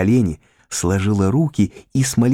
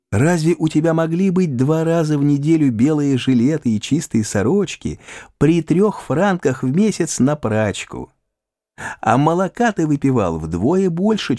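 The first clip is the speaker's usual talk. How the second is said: put-on lifted girlish voice, teasing; Pauline, higher voice; 9 semitones higher than usual. A narrator's reading. Pauline confessing to Raphael, higher and teasing. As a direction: let Pauline confess her little tricks, pitched up.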